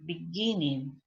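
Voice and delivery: Beginning stressed in the middle, be-GIN-ning; second-syllable stress. Shown as a demonstration. Teacher reminding students, Beginning stressed on second syllable. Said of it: "es la segunda sílaba que está acentuada".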